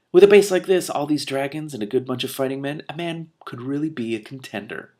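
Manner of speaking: a touch of a swaggering barbarian; lightly voiced brute musing on his luck; Hrun's inner voice. Barbarian musing he could be a lord, lightly gloating.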